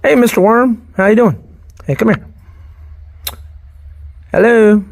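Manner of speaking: calling loudly and fondly to a worm; loud greeting. Real, not acted.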